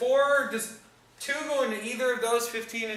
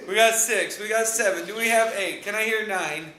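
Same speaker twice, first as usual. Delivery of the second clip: auctioneer. Pretend. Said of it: "I feel like an auctioneer all of a sudden".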